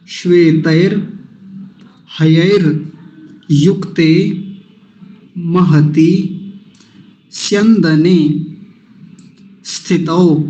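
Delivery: very slow, each word alone, for repeating; श्वेतैर, हयैर, युक्ते said one at a time, drawn out; word by word recitation. Shown as a demonstration. Teacher reciting each word for students to repeat. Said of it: "आप मेरे पीछे पीछे बोलेंगे".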